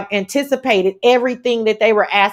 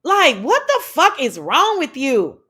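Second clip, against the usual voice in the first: exasperated; 4 semitones higher, slower than usual. Real, not acted. Scolding streamer Sir King.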